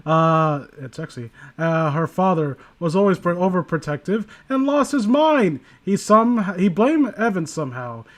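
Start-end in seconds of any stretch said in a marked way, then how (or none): 1.6-8.0 story reading. Acted. Reads a creepy story aloud.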